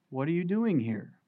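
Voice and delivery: soft, hushed question; still small voice. Acted. God quietly asking Elijah in the cave, soft and hushed. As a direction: ask it gently, barely above a breath. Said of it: "in a still, small voice".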